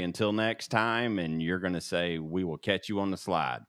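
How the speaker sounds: flat robotic sign-off read. Shown as a demonstration. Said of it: "say it like a robot, like I did".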